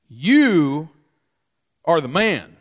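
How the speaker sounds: loud, heavy YOU, slow and weighty; accusing declaration. Acted. Prophet Nathan confronting King David, loud accusation. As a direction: point the finger and pronounce it. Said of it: "Nathan said to David".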